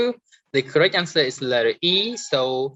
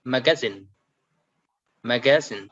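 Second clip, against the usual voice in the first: "magazine" with weight on ZINE; stress on last syllable. Shown as a demonstration. Teacher showing the last column, final-syllable stress on "magazine". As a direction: lean on ZINE in each "magazine". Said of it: "stress at the end".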